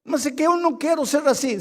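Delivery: a hint of a whining church member; whiny congregant. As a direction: mimic a complaining believer. Pastor voices congregant complaining.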